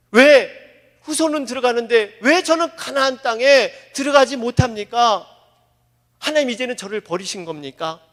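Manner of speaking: loud cry of why; anguished protest. Acted. Moses protesting to God about being shut out, loud.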